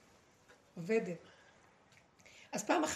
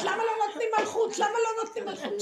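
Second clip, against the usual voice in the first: lightly voiced complaining woman, laughing, higher; mocking her whine; 9 semitones higher, 6 dB louder than usual. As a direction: tease her plaintive question with a laugh. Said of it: "והיא אומרת".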